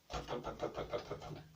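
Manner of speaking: unvoiced poke poke poke; whispered pokes. Narrator sneaking up on Sven, whispered. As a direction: breathe the pokes softly.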